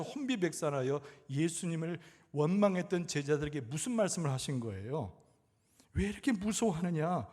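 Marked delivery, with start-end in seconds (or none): 5.9-7.3 higher, louder challenging questions; acted rebuke. Jesus to his frightened disciples, acted rebuke. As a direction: press both questions as a preacher voicing reproof. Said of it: "이렇게 말씀하시는 장면이에요".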